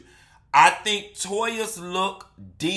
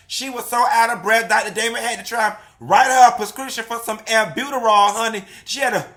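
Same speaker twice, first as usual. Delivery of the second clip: loud, high, fast gossip; sassy show host energy; hype gossip host; 6 semitones higher, 4 dB louder, faster than usual. Acted. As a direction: spill the tea loudly to the fans.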